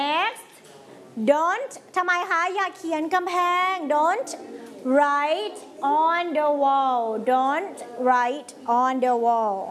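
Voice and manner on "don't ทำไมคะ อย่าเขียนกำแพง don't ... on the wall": each word stretched out slowly for the class to repeat; slow model reading. Shown as a demonstration. Teacher reading rules aloud for pupils to repeat, slow and deliberate. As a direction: read it slowly, word by word, like a drill.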